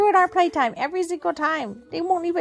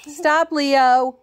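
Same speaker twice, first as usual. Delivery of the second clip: firm command; 5 dB louder than usual. Real, not acted. Telling dog off.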